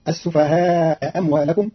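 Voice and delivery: السفهاء أموالكم run together as "as-sufahaa-mwalakum"; slow "sufahaa amwalakum", one hamza only in السفهاء أموالكم; first hamza dropped. Shown as a demonstration. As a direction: drop the final hamza of السفهاء before أموالكم. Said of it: "بحذف الهمزة الأولى مع قصر المنفصل".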